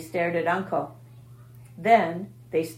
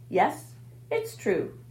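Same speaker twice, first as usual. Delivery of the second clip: sighing; slower than usual. Acted. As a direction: sigh it out wearily. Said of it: "sighed Charlotte".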